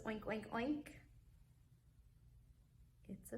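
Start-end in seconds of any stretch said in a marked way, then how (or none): 0.0-0.9 pig oink. Acted. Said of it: "She says".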